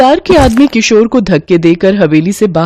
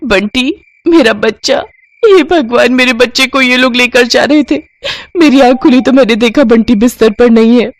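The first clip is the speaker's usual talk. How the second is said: much higher, breathless relief; relieved distraught mother; 5 semitones higher than usual. Acted. Mother finds her son Bunty in the sack, relieved and distraught. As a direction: cry out in relief at finding the child.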